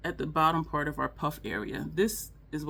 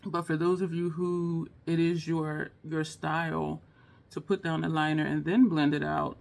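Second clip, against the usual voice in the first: normal talking voice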